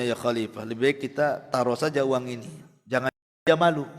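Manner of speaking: low and soft, a discreet suggestion; hushed servant aside. Retold or imitated. Servant quietly advising the caliph, low and soft. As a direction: murmur it quietly to your master.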